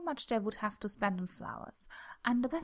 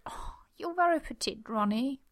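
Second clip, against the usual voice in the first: cooing; 4 semitones higher than usual. Acted. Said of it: "Gwen cooed".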